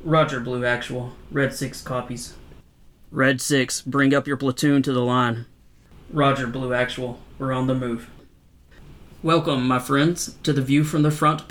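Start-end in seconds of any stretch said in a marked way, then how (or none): 0.0-8.1 crackly military radio call; over walkie talkie. Acted. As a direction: speak as if through a field radio. Radio call between platoon units.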